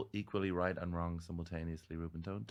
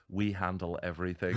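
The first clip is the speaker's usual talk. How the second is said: laughing. Real, not acted. Reading out the card, cracking up.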